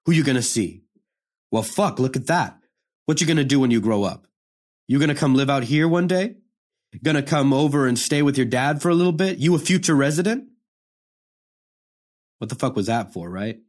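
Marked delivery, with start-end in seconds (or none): 0.1-10.5 a mocking prison guard, teasing and rising; joking guard. Guard teasing the boy during the pat-down, mocking. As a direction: needle the kid with a smirking taunt. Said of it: "he was joking around with me".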